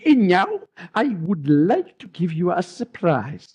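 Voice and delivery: lightly put-on French accent, Israeli tinge. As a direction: imitate a movie tailor with a French-Israeli accent. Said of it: "French accent that is Jewish, Israeli".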